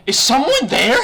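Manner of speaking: mock high startled mom, loud with laughter; mom's startled question. Friend's mom hears a stranger in the call, mock startled. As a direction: squeak it out like a surprised mother. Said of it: "She's like".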